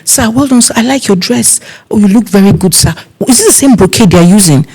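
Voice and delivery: high, sweet flattery; butter up the guest; flattering compliments. Retold or imitated. Planner flattering a troublesome uncle, high sweet tone. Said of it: "I'm like".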